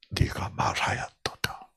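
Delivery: Jesus's reply 네가 말하였도다 whispered. Acted. Jesus quietly answers Judas in a whisper. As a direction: hush it to a whisper.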